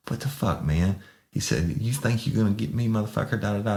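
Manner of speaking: high, whiny mock suspect. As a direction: squeak it out like a cornered crook. Suspect protests, officer imitates him.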